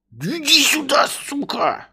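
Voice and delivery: high, loud yell; angry shout. Acted. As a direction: yell at the servant to come. Master yelling for servant.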